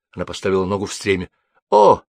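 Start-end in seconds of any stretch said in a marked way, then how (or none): 1.7-2.0 high, loud, drawn-out gallant exclamation; exclaiming. A narrator's reading. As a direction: cry out slowly in storybook astonishment. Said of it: "вскричал Александр". (изумлённо вскричал)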